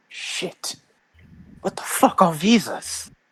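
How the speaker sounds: very high whisper under the breath, as an aside. Playing a character asking a companion what visas are: whispering. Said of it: "He whispers to Jin".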